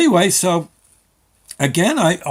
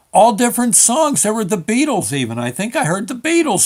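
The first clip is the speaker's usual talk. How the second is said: high, excited marveling; amazed; 7 semitones higher, 4 dB louder than usual. Real, not acted. Customer marveling at the music in the DMV, high and amazed. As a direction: pitch it up in wonder.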